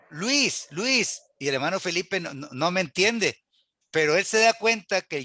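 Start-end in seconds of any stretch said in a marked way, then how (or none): 0.1-1.2 mock hail, pitched up; calling someone. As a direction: pretend call to a man by name. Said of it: "yo le digo".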